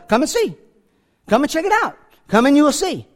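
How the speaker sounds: excited invite to a doubting friend; eager invitation. Retold or imitated. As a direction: pull him in with eagerness. Philip's warm invitation repeated.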